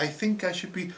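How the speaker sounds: slipping away from the loopy organiser, lightly doing a cartoon dad voice; Homer Simpson. Escaping the loopy organiser in a light cartoon dad voice. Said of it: "I did my Homer Simpson".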